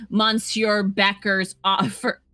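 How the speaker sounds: slow mock French accent on Monsieur; lightly put-on French accent; bad French accent. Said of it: "bad French accent".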